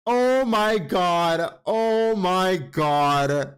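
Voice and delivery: stunned. Retold or imitated. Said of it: "And I was like".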